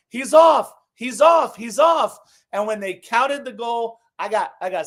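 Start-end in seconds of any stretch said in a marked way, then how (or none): 0.1-2.2 punchy shouted call, repeated; re-enacted yelling. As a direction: yell it like a protesting fan in the stands. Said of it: "I'm yelling".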